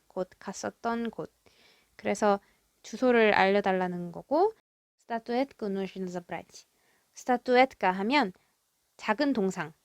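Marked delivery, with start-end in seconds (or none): 5.1-6.6 soft unvoiced whisper, slow. Shown as a demonstration. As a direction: breathe the line out slowly. Whispered Russian line read out. (천천히 속삭이듯)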